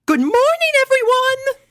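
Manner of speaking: very high, loud cheerful teacher greeting; teacher announcing. A narrator's reading. Cheerilee greeting her class, loud high cheerful announcement. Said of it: "she announced".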